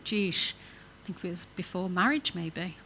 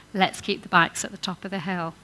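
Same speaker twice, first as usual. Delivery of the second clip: calm, friendly invitation; "Let's keep the bikes at the top of the hill" said gently; positive suggestion. Shown as a demonstration. Preacher contrasting the positive phrasing, calm and friendly. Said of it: "Different thing".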